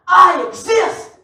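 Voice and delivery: slow shouted proclamation. Acted. Preacher to congregation, slow loud proclamation. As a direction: drive the words home.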